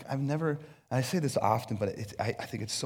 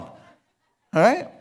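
laughing; 8 semitones higher, 9 dB louder than usual. Real, not acted. Laughs at own joke.

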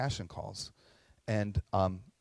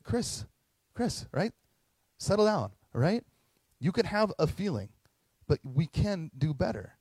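higher, soothing wife voice calming him down; imitating his wife; 6 semitones higher than usual. Wife to husband Chris, a higher calming voice. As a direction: lightly play Nikki settling her husband. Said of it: "Nikki's like".

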